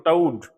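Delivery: टाउड with open au glide; toad as taud. Shown as a demonstration. Teacher correcting class on टाउड, au glide. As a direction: say टाउड, not टोड. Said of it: "टोड नहीं बोलते इसको".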